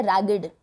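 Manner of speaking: रैगड ending in a clear id sound; रैगड, final syllable id; ragged with id ending. Shown as a demonstration. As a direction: say रैगड as rag-id. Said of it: "इड की sound आई last में".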